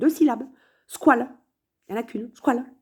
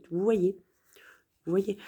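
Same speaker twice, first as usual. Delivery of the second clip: soft whispered repeat; 2 semitones lower, 6 dB quieter than usual. Real, not acted. Insisting to viewers, whispering. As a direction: let it fade into a whisper.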